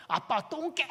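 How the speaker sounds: put-on high-pitched toddler insult. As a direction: imitate a sulky little girl's parting jab. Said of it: "얘가 막 짜증을 내고". (높은 목소리로 토라진 꼬마 흉내)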